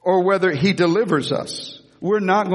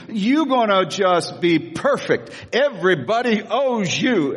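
doting flatterer; 5 semitones higher than usual. Retold or imitated. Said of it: "the little bitty baby king".

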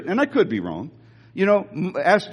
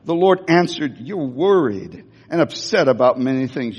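compassionate; 7 semitones lower than usual. Retold or imitated. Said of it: "he was compassionate".

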